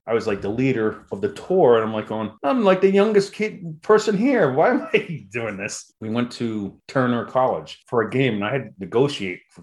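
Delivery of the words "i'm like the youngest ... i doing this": high squeaky mock panic, louder. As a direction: squeal it like a scared kid out of his depth. Panicked quote of himself.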